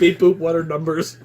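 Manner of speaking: robot voice, beep boop; glitching robot. Pretend. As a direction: play a broken robot. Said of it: "You are a malfunctioning robot".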